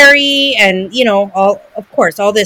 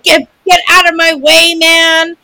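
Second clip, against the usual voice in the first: Mama Bear; 6 semitones higher, 4 dB louder than usual. Retold or imitated. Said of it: "Mama Bear was on the".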